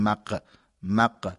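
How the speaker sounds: مق ending in a stopped ق; hard qaf sound. Shown as a demonstration. Teacher contrasts the wrong qaf sound. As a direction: clip مق hard like ق. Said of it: "مثل قاف نیست که بگیم".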